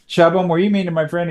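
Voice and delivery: lightly voiced kid asking Chubbum; Dorbat voice. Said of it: "where a Dorbat's asking him".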